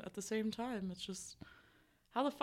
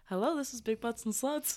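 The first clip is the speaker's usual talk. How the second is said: customer service voice; 3 semitones higher than usual. Pretend. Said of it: "customer service voice".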